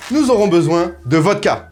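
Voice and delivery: put-on a light Russian accent on vodka; lightly put-on Russian accent, hamming up vodka. The host lists the vodka for viewers in a light Russian accent. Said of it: "j'ai fait vodka avec la, l'accent russe".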